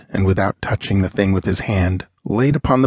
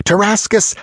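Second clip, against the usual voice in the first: Tarascus cried out much higher; calling out; 12 semitones higher than usual. Acted. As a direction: fling the name out in exultation. Calling out companions in triumph.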